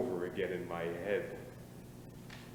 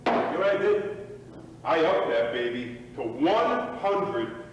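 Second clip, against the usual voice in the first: excited boast; 3 semitones higher, 8 dB louder, slower than usual. Acted. Drunken boast, loud.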